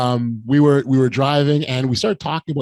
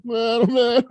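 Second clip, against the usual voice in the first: overcome; 10 semitones higher, slower than usual. Retold or imitated. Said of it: "I was blubbering".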